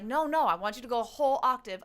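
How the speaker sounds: mock firm choir director; lightly voiced insistence; insistent choir director. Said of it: "I would always be told".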